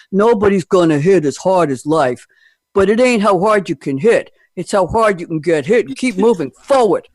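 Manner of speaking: lightly gruff boxer voice, pushing forward; Stallone voice. Retold or imitated. Host quotes Rocky for the panel in a Stallone voice. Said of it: "I'm gonna try and do it in a Stallone voice".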